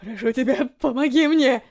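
отчаянная мольба с подъёмом на «мне»; взмолиться о помощи. A narrator's reading. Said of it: "взмолился". (старик молит медсестру о помощи, отчаянно)

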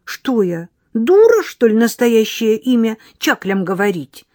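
high, loud mocking retort; girl grinning at Egor's question; smirking. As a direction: smirk through the line. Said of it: "ухмыльнулась девочка".

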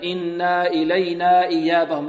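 إنا said with a long alif before إلينا, marked as wrong; wrong added alif. Shown as a demonstration. Teacher to students, showing what not to say: إنا stretched. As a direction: show the mistake إنا with the vowel stretched. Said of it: "لا، خطأ".

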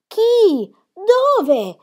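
high, loud anxious demand; alarmed questions. A narrator's reading. Grandmother hearing someone was taken away, alarmed. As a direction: fire out startled questions, pitched high.

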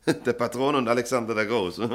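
chuckling through the words; amused disbelief, laughing. Acted. Chief editor laughing at the mixed-up article.

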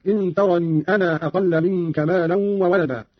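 ترني with long ii and أنا with long aa; sounded ya, madd. Shown as a demonstration. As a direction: slowly draw out the ends of ترني and أنا. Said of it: "بإثبات الياء في ترني وصلا".

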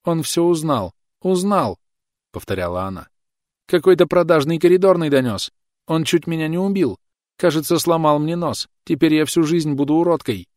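high, loud panicked sobbing; hysterical shrieking on phone. Acted. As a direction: shriek it through tears. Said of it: "Истерически рыдая, она визжала в трубку".

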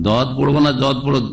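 "দদ" with heavy d, "জদ" with z; d-sound then z-sound; d versus z contrast. Shown as a demonstration. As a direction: set "দদ" against "জদ" by the first consonant. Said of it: "জদ নিয়ে খুব ঝগড়া".

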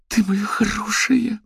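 high, slow frantic cooing to a sick creature. A narrator's reading. Manya coos frantically over the dying creature. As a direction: coo it desperately, high and tender. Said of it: "неистово зашептала Маня".

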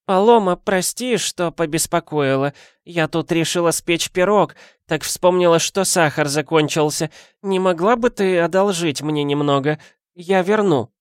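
put-on high, creaky-free old granny voice; old woman voice. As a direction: play the nosy old neighbour. Old woman borrows sugar.

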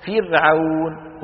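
فرعون drawn out, with a light ر; light thin ra. Shown as a demonstration. Teacher gives the model word, light ra. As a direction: stretch فرعون slowly, keeping ر thin. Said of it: "كراء فرعون".

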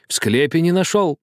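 high, relieved echo; joyful disbelief. A narrator's reading. Old man hears the crypt was missed, joyful. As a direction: seize on the news with glee, pitch lifted. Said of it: "радостно шептал старик".

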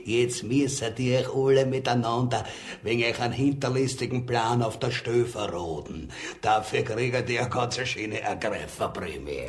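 loud, fast gloating; gloating announcement. Acted. Spy loudly gloats to the conspirators. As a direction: crow over them triumphantly.

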